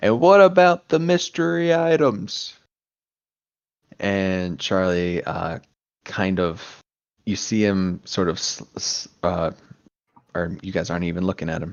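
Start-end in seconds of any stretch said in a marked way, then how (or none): 0.0-2.6 loud shout, high-pitched. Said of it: "a faint voice from the back kind of yell out".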